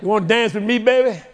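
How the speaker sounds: high, loud swaggering taunt with a laugh; cocky teenager laughing. Acted. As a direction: strut it out, grinning. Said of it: "sound like a teenager".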